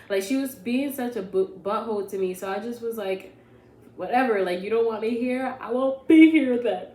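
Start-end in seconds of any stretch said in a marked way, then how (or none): 4.0-6.9 louder, higher storming-off retort; defiant shout. Retold or imitated. To her nagging mother, a defiant shout. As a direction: throw it back, fed up.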